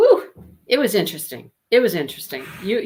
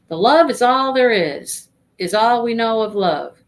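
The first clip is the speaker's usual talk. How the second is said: measured poetry recital, louder at first; poem reading; 3 dB louder than usual. Acted. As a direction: read the verse aloud for the book club. Reads a poem aloud.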